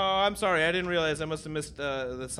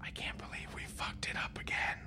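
unearthly voice; 15 dB quieter than usual. Acted. Ghost voices from future.

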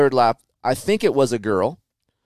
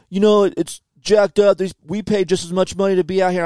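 complaining rider; 6 semitones higher than usual. Retold or imitated.

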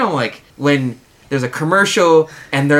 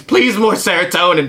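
mock whining dog; 4 semitones higher, 4 dB louder than usual. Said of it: "we're dogs crying".

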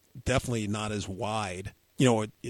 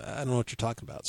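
quick clueless reply; 4 dB quieter, much faster than usual. Retold or imitated. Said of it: "And I go".

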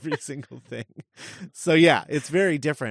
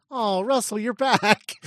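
raised, gleeful welcome back to Russell; fond delight; 7 semitones higher, 3 dB louder, slower than usual. Retold or imitated. Fan welcoming Russell back, lightly delighted and fond. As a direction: greet him like an old friend returning. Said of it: "And then being like".

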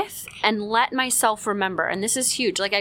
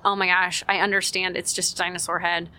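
dismissive. Shown as a demonstration. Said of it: "I had to not go".

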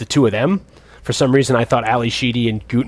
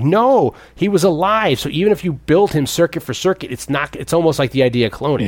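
mock protest; 4 semitones higher than usual. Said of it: "And Ali Sheedy's like".

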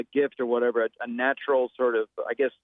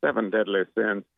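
low film-trailer narrator impression; measured imitation of a celebrity voice-over; Morgan Freeman; 3 semitones lower than usual. Shown as a demonstration. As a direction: intone it like the famous actor's movie advert. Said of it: "I know how I could make that sound".

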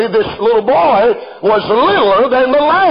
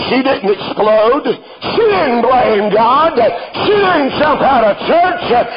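building preaching; 3 semitones higher than usual. Acted. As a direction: build it line by line, stressing didn't.

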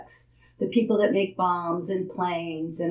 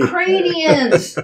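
emphatic reveal; 9 semitones higher, 6 dB louder, slower than usual. Real, not acted. Punchline reveal of yacht owners.

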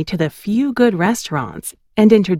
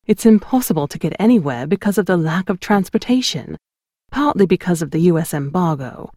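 a hint of a British accent, brisk in places; light British accent. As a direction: lightly voice a blunt British photographer. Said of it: "I was sure he was British now".

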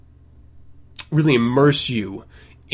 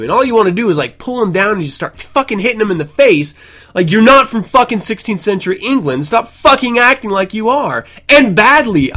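higher and louder, real exasperated fury; furious rant; 9 semitones higher, 7 dB louder than usual. Real, not acted. Podcaster ranting about festival fake accents, furious shout. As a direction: blow up at the fake-accent crowd, loud and high. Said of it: "It, it's just so aggravating to listen to".

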